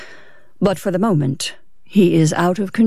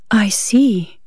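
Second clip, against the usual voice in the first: whispered, shaken response; murmured; 2 semitones higher than usual. A narrator's reading. Wife, hands trembling at his story, whispered murmur. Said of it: "she murmured".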